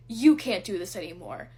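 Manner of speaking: falling, scornful flat repeat; retold scoff, settled and contemptuous; dismissive repeat. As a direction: drop it down and dismiss her. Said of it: "he scoffs at me".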